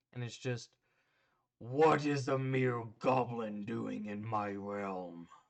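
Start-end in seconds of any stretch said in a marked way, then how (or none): 1.6-5.3 loud, resounding, echoing voice from overhead. Voicing an unseen being heard from above, addressing a goblin: echoing voice from above. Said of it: "this echoing voice that you can tell it's coming above you".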